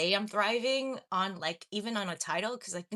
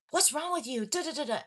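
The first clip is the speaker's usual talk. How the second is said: imitating a nagging mom, raised pitch; scolding mom; 6 semitones higher than usual. Mom berating her crying child after a failed test, mock scolding. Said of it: "my mom made me feel bad".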